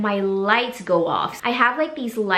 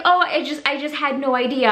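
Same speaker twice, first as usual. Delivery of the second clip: higher, stumbling excuse; flustered neighbor; 4 semitones higher than usual. Retold or imitated. Neighbor explains herself, flustered higher voice. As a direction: fumble the excuse, embarrassed. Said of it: "she was like".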